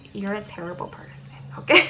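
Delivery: mock whisper, barely voiced; retold catty whisper behind her back; whispered insult. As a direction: hiss the insult under her breath, teasing. Friend trash-talking, caught by Stephanie.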